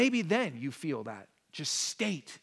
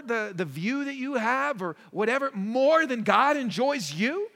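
impassioned preaching; 5 semitones higher, 7 dB louder than usual. Real, not acted. Pastor challenging congregation, rising intensity.

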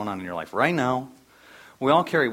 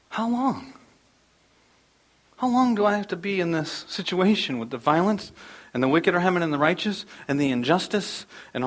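higher, pleading lament; Habakkuk/character; 4 semitones higher than usual. Acted. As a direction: plead with God in rising distress. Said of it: "what Habakkuk is saying".

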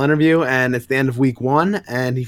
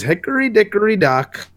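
"Hickory dickory dock" chanted much higher, bright and sing-song; sing-song rhyme; 9 semitones higher than usual. Acted. Harley opening her nursery rhyme to Booster, high and sing-song. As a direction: start the rhyme high and playful, like a kid's chant.

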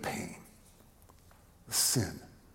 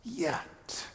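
soft repeated "Yet"; 3 semitones higher, 9 dB quieter than usual. Acted. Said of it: "Can you hear".

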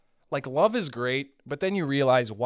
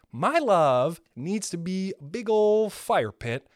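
grand declaration; 5 semitones higher, 3 dB louder, slower than usual. Pretend. Declaring fiery love.

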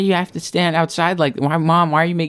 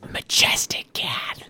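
whispering; 6 dB quieter, slower than usual. Acted. Sad cat life.

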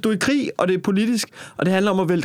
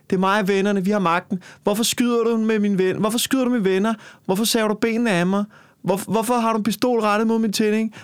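raised voice, protesting being shot; mock pleading rebel; 4 semitones higher than usual. Rebel protesting to the soldiers, pitched up. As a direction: play the doomed rebel reacting in alarm. Acted confrontation with armed guards.

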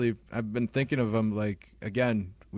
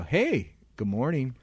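mock cheery greeting; 3 semitones higher, slower than usual. Storyteller greeting the girlfriend leaving, mock cheery. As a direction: greet with exaggerated friendliness, pitched up.

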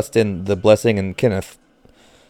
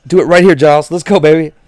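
cheering; 7 semitones higher, 6 dB louder than usual. Real, not acted. Cheering on the pitcher.

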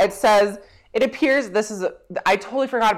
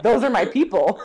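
bad Hitler impression. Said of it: "my bad impression of it".

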